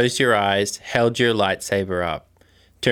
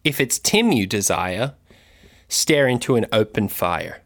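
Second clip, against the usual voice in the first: spooky poem. Acted. Recites a spooky rhyme.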